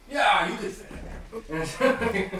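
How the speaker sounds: slow, lightly voiced eccentric host; doubtful host. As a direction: size up the guest and stretch it out. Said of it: "looks up at Graham and kinda like".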